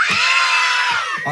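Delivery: very high puppet shout. Pretend. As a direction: belt it as loud as you can. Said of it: "Lakasan nyo".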